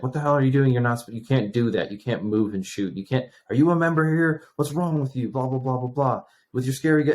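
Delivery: mock angry yelling. Range officer scolding me for moving and shooting, mock yelling. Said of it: "yelling at me".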